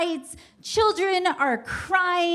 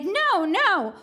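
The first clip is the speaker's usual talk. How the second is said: panicked denial; 5 semitones higher than usual. Retold or imitated. Acted panicked denial to guard.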